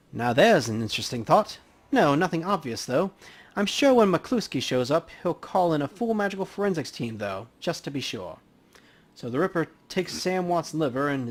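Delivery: easygoing professional banter at a crime scene; lightly voiced coroner. Dresden speculates.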